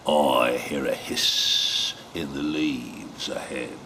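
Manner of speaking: low, slow wary growl; Gruffalo voice. Acted. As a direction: rumble it softly.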